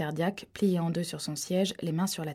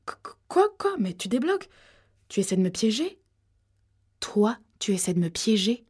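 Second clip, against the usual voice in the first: flustered disbelief; 3 semitones higher than usual. Acted. Girl accused of wearing a wire, flustered and indignant. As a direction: stumble into an incredulous counter-accusation.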